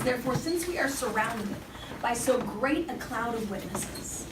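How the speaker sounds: solemn reading from the pulpit; scripture reading. Acted. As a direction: read the passage with weight, slowing at the key phrases. Reads Hebrews aloud.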